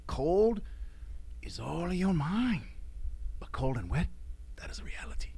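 Puerto Rican instructor. Retold or imitated. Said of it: "And then he would say".

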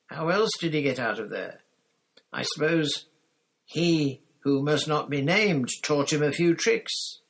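high, loud shrill yell; shrill shout. A narrator's reading. Pettigrew shouting shrilly at Black, high and loud. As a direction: shriek it out high and panicky. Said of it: "Pettigrew shouted shrilly".

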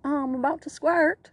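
high, loud mock English accent. Host obliging a friend's request, put-on English accent. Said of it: "an English person say squirt".

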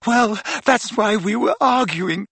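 put-on high-pitched distraught girl; shaking, tearful. A narrator's reading. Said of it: "had started to shake uncontrollably".

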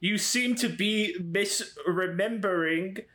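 slow, slightly put-on comeback; in-character retort. Disguised Cody answers the boy's threat, slow lightly voiced retort. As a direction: draw out the correction to needle him.

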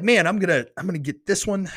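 high, eager rush of excitement; excited self-quote. Retold or imitated. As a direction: replay the thrill of picking the backpack. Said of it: "But I was, I was like".

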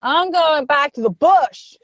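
mocking Australian bush impression; exaggerated bush accent. Host teasing co-host's impression, exaggerated Australian bush accent. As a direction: ham up the failed Australian accent. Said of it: "but then you were like".

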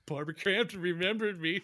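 lightly acted starstruck fanboy, giggling; gush, then dissolve into giggles; inner fanboy. Fanboy inside reacts to horror actress remembering him, giddy. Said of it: "this little fanboy inside of me".

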